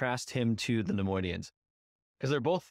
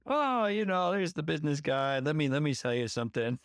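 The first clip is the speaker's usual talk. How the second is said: much higher, oily sales pitch; smarmy salesman; 6 semitones higher than usual. Retold or imitated. Podcaster imitating Watto turning salesman again, smarmy. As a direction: switch on the business charm. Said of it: "And now he's like".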